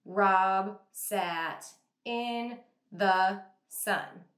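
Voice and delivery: slow, choppy word-by-word reading; robotic word-by-word reading. Shown as a demonstration. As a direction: read it one flat word at a time. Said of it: "I wouldn't say".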